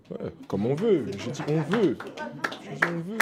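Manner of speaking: hyped rallying cry. Real, not acted. Player repeats rallying motto, hyping teammates.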